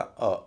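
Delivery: "अ" as a short schwa; light syllable. Shown as a demonstration. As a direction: say "अ" as a brief uh. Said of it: "वह हल्का हो जाएगा".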